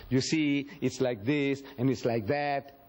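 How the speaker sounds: low, drawn-along filler talk; mock beating around the bush; imitating fumbling for thoughts. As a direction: play at stalling while gathering thoughts. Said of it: "We fumble to gather our thoughts".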